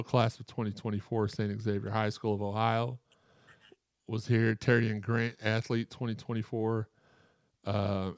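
winded, gasping between phrases; out of breath. Real, not acted. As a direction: read it a bit out of breath. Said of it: "out of breath a little bit too".

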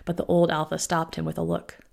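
plain reading voice

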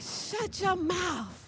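slow, high laughing shout; playful disbelief. Shown as a demonstration. Teaching the congregation a slow, high, playful shout of disbelief. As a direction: drag it out in fun disbelief. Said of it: "Try that".

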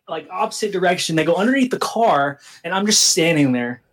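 ordinary delivery

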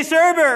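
"sherbet" said as "SHER-bert"; sherbert with added r. Shown as a demonstration. Pastor polling congregation on their habit, sherbert pronunciation. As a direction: put a second r in "sherbet". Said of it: "It's not sherbet".

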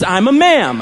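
lightly voiced toddler; toddler's reply. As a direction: mimic the kid.

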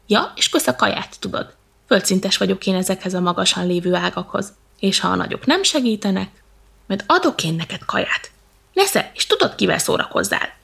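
a touch of annoyed monkey; mildly cross little monkey; grumbling. Acted. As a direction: complain with some bite. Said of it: "mérgeskedett tovább a majom".

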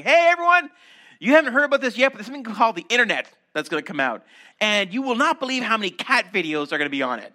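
high, loud mock proclamation; hammed-up prophet shouting the news; an excited herald, hammed up; mock prophet announcement. Mock Old Testament prophet announcing.

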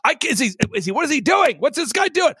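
incredulous outburst. Retold or imitated. Retold alarm at church.

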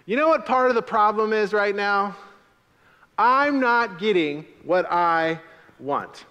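high and loud, last line slowed; loud slow recital. Shown as a demonstration. Pastor having the congregation say it to each other, loud. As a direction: say it to your neighbour, spelled out. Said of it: "say that to someone else".

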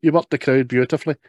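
high, gushing adoring voice; gushing fan. Retold or imitated. Fawning fan gushing up high at Adolf. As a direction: swoon over him in a high gush.

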